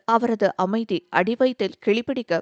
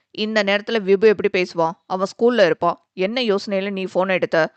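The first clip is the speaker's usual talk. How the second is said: lingering anger; 4 dB louder than usual. Acted. Brother scolding sister for picking up thinking of Vibu, angry. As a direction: tell her off, still sulking. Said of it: "தனியாத கோபத்துடன்".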